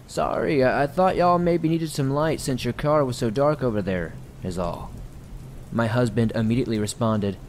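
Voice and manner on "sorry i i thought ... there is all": higher, calling across in a stranger's voice; an odd guy shouting over apologetically; strange man calling out. Retold or imitated. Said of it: "this strange male voice yelling".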